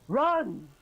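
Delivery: high, urgent heroic yell; screamed order. Acted. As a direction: scream it at the party to flee. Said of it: "he screams at you".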